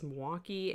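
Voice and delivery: Milwaukee contracted to "Mwaukee"; local pronunciation. Shown as a demonstration. Recalling a Wisconsinism, Milwaukee squashed to "Mwaukee". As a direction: say Milwaukee in two syllables, swallowing the "il". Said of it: "what was the other Wisconsinism".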